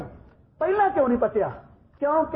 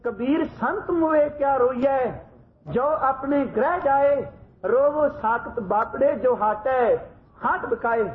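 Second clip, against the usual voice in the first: grave voice. Retold or imitated. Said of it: "ਤੇ ਗੰਭੀਰ ਆਵਾਜ਼ ਵਿੱਚ ਪੜ੍ਹਦੇ ਨੇ".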